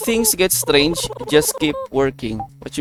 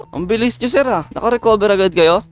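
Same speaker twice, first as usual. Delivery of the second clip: amazed; 7 semitones higher than usual. Real, not acted. Marveling at the instantly cured patient, high. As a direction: pitch shoots up in disbelief. Patient recovers suspiciously fast.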